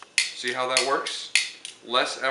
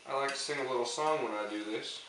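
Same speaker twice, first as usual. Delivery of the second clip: whisper; 6 dB quieter than usual. Pretend. Whispered aside before a song.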